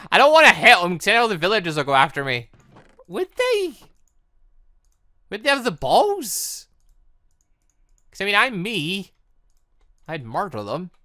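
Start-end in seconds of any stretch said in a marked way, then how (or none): 3.1-6.7 high squeaky mock disbelief, drawn out; mock incredulous. Player mocking the villagers' courage, high mocking voice. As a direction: scoff at the idea in a high put-on voice. Doubting villagers would fight.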